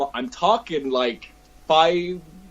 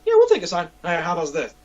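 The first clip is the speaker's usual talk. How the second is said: higher, cocky Vegeta voice; Vegeta showing off; 4 semitones higher, faster than usual. Acted. Vegeta cosplayer poses for a delighted kid, cocky. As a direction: show off for the kid. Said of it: "And I was like".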